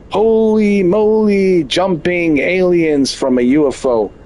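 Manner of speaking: high, slow gasp of wonder; hammed-up holy moly; mock amazement. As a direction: play the stunned viewer. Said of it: "you'll say".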